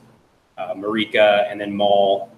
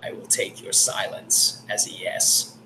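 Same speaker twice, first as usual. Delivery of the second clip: hushed, whispery machine voice, measured and slow; soft, halting whisper of a construct; solemn construct; 7 dB quieter than usual. Acted. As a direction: speak as an ancient automaton in a slow whisper. Game master again voices Aegis.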